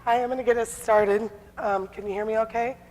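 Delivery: hoarse, losing my voice; rough smoker's rasp from a sore throat. Real, not acted. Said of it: "old smoker's voice today".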